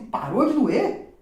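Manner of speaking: slow, high, loud retold question; astonished question. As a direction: ask it in drawn-out disbelief, rising at the end. Retells his astonished question. (pergunta incrédula, lenta e aguda)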